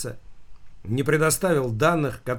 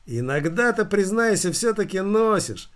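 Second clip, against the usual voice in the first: sly; 8 semitones higher than usual. A narrator's reading. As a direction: needle him with a squint. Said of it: "прищурившись, лукаво спросил директор". (лукаво, с прищуром)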